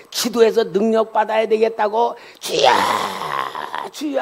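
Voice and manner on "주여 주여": retold wailing plea to heaven; crying out in prayer. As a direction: call out to God, stretching the vowel. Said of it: "막 부르짖어 기도하면".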